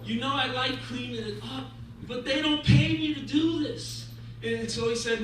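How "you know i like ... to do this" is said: mildly pleading janitor, rising at the end; pleading complaint. Acted. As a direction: plead your case to God with a touch of grievance.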